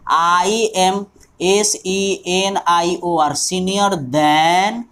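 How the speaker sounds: slow, deliberate wrong example; teacher showing a wrong sentence. Shown as a demonstration. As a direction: spell out the incorrect sentence slowly. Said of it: "गलत हो जाएगा".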